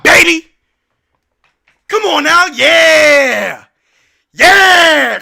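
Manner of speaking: loud, high celebratory shouts; triumphant yelling. Real, not acted. Streamer celebrating a tying free throw, triumphant yelling. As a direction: hype up the chat at full volume.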